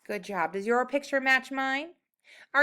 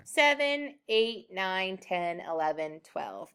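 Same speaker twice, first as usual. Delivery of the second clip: counting up; 4 semitones lower, slower than usual. Shown as a demonstration. Teacher counting up five to check the math. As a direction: count each number out, fading. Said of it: "counting up five".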